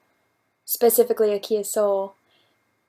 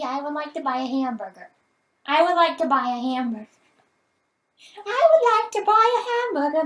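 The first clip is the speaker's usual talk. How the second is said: British accent; 3 semitones higher than usual. Shown as a demonstration. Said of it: "in a British accent?".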